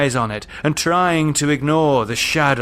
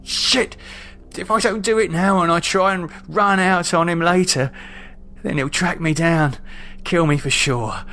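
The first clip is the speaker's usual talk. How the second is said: higher, tense self-argument; anxious resolve; 5 semitones higher than usual. Acted. David argues he must kill Underwood, anxious and tense. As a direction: convince yourself, voice climbing under strain.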